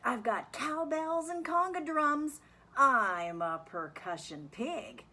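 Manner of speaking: high, loud, excited character voice; eager pig drummer. Acted. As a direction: play a bouncy pig showing off his drums. Drummer pig introduces himself.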